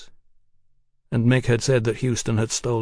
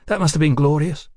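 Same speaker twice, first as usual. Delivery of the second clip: higher-pitched, eager woman's voice; flattering woman; 4 semitones higher, 3 dB louder than usual. A narrator's reading. Woman praising the Texian's battle, eager. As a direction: gush a little, pitched up.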